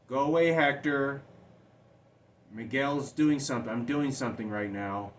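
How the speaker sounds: put-on high, loud child pleading to be left alone; retold child voice. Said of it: "and Frankie goes".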